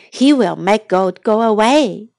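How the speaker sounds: breathy voiceless whisper. Shown as a demonstration. Teacher whispering the repeat line to the class. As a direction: whisper it so the class can copy.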